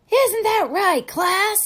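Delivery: very high, loud demand; loud coach question. Acted. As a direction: call out to the whole class. Coach addressing class.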